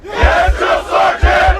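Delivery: yes sir military replies. Real, not acted. Recruits answer in chorus.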